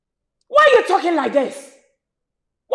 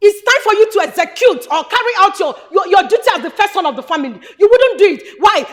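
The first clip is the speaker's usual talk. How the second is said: shouted accusation. Acted. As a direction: tear into him. Sister shouting at brother.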